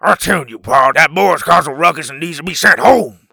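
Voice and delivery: loud, angry hillbilly-style demand; furious, hollered insistence; trembling with anger. A narrator's reading. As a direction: demand punishment in a rage. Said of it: "trembling with anger".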